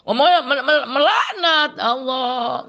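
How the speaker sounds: can't believe it, laughing; laughing disbelief. Real, not acted.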